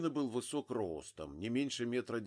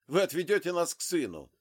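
loud, high stress on вы; insist, pulling the gun; menacing demand; 7 semitones higher, 7 dB louder, faster than usual. A narrator's reading. Father pulls a gun on Zig, loud menacing demand. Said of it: "добавил отец".

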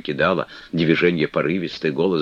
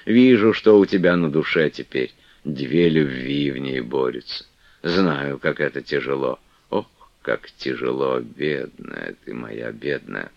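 тише к концу, медленно, с жалостью; пожалеть бедную девушку; жалостливая игуменья. Acted. Манефа жалеет Флёнушку. (Манефа сокрушается о Флёнушке, тише и медленнее)

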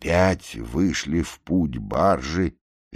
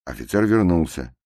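usual speaking voice

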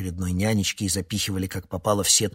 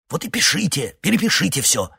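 горячо; 10 semitones higher, 7 dB louder than usual. A narrator's reading. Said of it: "прошептал Борухов".

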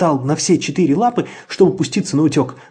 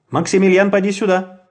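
man calls the dog, raised voice; shouting; 7 semitones higher, 3 dB louder than usual. A narrator's reading. Man calls the dog Maximilian, mildly raised voice. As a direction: call out across the yard. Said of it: "закричал человеческий голос".

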